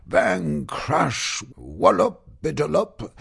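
high, loud bang crash wallop; crash noises. Acted. The dragon tells Zoe how he crashed, loud comic crash words. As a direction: act out the tumble with rising bangs.

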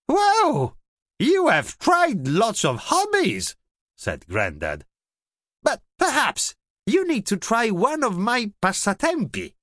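light grandad voice, amazed then kind; lightly voiced grandad. A narrator's reading.

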